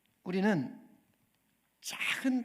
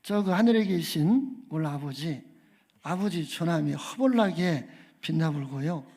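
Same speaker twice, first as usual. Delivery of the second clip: comic Jeolla dialect prayer, louder, hearty; 전라도 사투리로 신나게 읊는 주기도문; 6 dB louder than usual. Pretend. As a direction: pray the Lord's Prayer like a Jeolla countryman for laughs. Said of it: "전라도 버전입니다".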